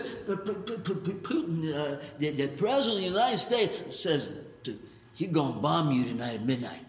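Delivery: put-on slurred, stammering drunk hick voice; drunk hick stutter. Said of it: "You sound like a drunk hick".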